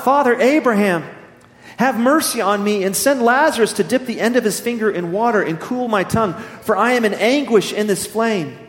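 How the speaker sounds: calling out in anguish. Acted. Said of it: "he called out".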